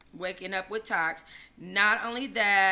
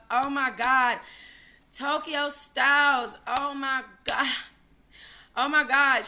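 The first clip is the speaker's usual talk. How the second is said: high, loud, thrilled oh my God; gushing excitement; 6 semitones higher, 5 dB louder, slower than usual. Real, not acted. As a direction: squeal with fan excitement. Gushing over Tokyo Styles.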